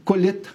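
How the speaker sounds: "colheita" said as "colheta"; Lula's pronunciation. Retold or imitated. Co-host borrowing the president's word, "colheita" as "colheta". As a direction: quote "colheita" without the i: co-LHE-ta. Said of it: "como mencionou Augusto referindo-se ao Lula".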